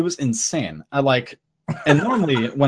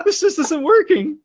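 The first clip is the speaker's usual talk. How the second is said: frustrated; 11 semitones higher than usual. Retold or imitated. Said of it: "And I'm like".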